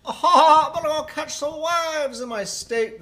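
slow Californian surfer drawl opening high; California accent. Acted. Player hinting at a state, drawn-out California accent. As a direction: start on a laughing, drawn-out California impression.

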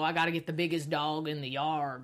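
a mild Southern villain boast; Southern accent. Retold or imitated. Co-host quoting the TV villain in a light Southern accent. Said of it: "I don't know why he got an accent".

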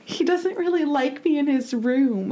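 put-on high, timid child voice; a little girl confessing shyly; small girl's voice. Clara tells Rory her brother keeps her out of his room, in a timid child's voice. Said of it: "Clara goes".

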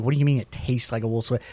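fast, quiet, mock disbelief; imitating a puzzled listener, quick; incredulous. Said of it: "people are like".

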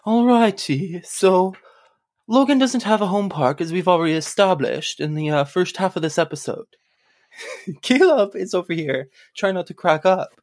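put-on Canadian accent. Host doing his resolution intro for listeners in a hammed-up Canadian accent. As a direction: ham up a proper Canadian accent. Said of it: "Does anybody in Canada talk like that?".

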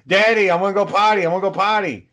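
put-on high, pleading little-kid voice; imitated eager child. Jealous son running in begging his dad, imitated high eager voice.

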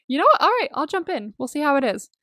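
excited. Retold or imitated. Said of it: "I got so excited".

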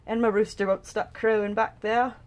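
slipping into a British accent; lightly British-accented aside. Real, not acted. Podcaster grumbling about her noisy rooster, British accent. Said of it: "went into a British accent".

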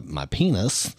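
ordinary talk, nothing marked

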